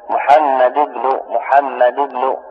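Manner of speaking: محمد ابن said slowly, with no tanween on محمد; slow demo of محمد ابن with no nunation; careful classroom pronunciation of محمد ابن; tanween dropped. Shown as a demonstration. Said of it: "أصلها محمد".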